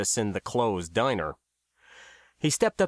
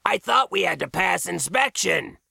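raised, higher-pitched call; calling over noise; 6 semitones higher than usual. A narrator's reading. Max questions Pap over the cheering, calling out. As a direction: make yourself heard over the din. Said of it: "he called over the noise".

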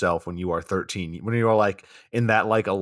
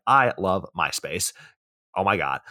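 put-on Valley Girl voice; 3 semitones lower than usual. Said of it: "I love your high school girl impression".

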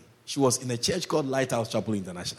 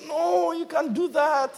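high, slow voice of the insisting wife; mock wife refusing firmly; wife's firm no; 13 semitones higher, slower than usual. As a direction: play the wife putting her foot down.

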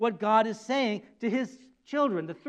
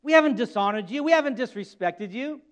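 sarcastic protest. Acted. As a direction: deny it smugly. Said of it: "sarcastic attitude".

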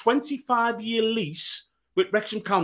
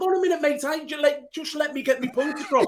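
pitched up sharply, laughing through it; insistent high cut-in; 8 semitones higher than usual. Real, not acted. Pundit cutting in on Jimmy, pitched up and laughing. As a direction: demand the floor, half laughing. Cutting in over a heated debate.

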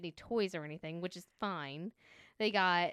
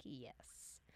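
flat yes; 7 semitones lower, 18 dB quieter than usual. Retold or imitated. Retold reply to store workers.

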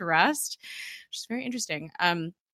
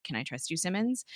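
serious; 9 dB quieter than usual. Retold or imitated. Mace asks Simmons if he can trust her, quiet and grave. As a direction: hush it into a grave question. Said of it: "And he sounds very serious".

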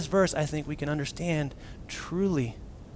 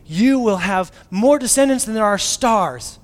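grand promise; 6 semitones higher, 10 dB louder, slower than usual. Retold or imitated. God's promise to Abraham.

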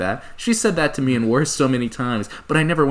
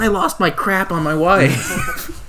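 high, slow, wholesome fifties guy; a squeaky-clean 1950s dad, aw-shucks; chipper 1950s ad; 7 semitones higher, 3 dB louder, much slower than usual. Acted. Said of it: "talking like a nineteen fifties guy".

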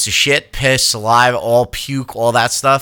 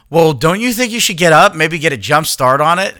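higher, louder, exasperated questioning; retold nagging, pushed up in pitch and volume; exasperated prodding; 6 semitones higher, 4 dB louder than usual. Husband prodding his wife off her phone, exasperated.

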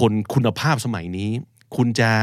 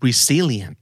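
resilient with the SIL punched; resilient, re-SIL-ient, falling after the stress; stress on second syllable; much slower than usual. Shown as a demonstration. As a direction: hit the middle syllable of resilient. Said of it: "พยางค์ที่สองนะครับ".

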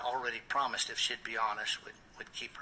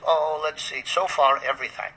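mock pondering, pitched up at first; sarcastic retort; 5 semitones higher, 5 dB louder than usual. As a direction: retell a pointed, sarcastic comeback. Sarcastic retort in retold confrontation.

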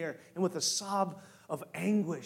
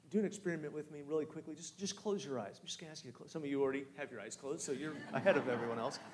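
softer, quick and quiet; hushed guidance; 7 dB quieter, faster than usual. Acted. Pastor asking the congregation to close eyes, hushed. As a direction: draw them in gently. Hushed setup of imagination exercise.

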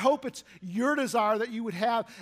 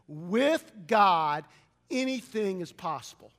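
leading a recitation. Shown as a demonstration. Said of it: "Say that with me".

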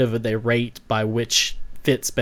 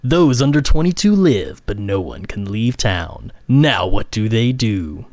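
crazy voice; 4 dB louder than usual. Acted. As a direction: read it like a deranged movie villain. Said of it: "in my crazy voice?".

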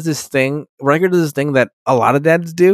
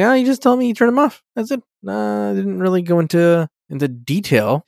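put-on higher, faster, offhand teen voice; light mock Wesley; 6 semitones higher than usual. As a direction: toss it off like a shrugging kid. Wesley voiced in retold scene.

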